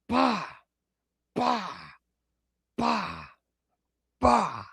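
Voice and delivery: short, high "bah" bursts; imitated movie noise. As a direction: separate punched puffs of sound, evenly spaced. Imitates a noise from Jaws two.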